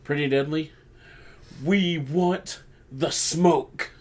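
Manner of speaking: challenge, slow on the last phrase; drawn-out callout to the rival team; calling them out. Retold or imitated. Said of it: "they're like".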